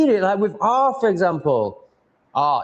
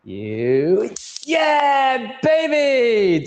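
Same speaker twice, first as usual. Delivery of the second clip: high shouted victory cry; triumphant whoop; 9 semitones higher, much slower than usual. Real, not acted. Cheering as the zapper kills the mosquito, triumphant shout. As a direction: cheer the kill like a goal.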